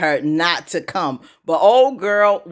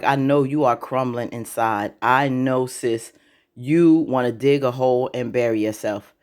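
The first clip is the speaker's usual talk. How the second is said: knowing sympathy; 5 semitones lower than usual. Retold or imitated. Acted knowing look at Andy.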